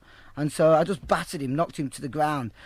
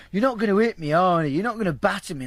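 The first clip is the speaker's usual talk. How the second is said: higher, mock-anxious repeated pleading; retold psycho pleading; 4 semitones higher, 4 dB louder than usual. Woman nagging the speaker not to hit her, mock psycho. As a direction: plead in an imitated, worked-up voice. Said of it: "she kept going psycho".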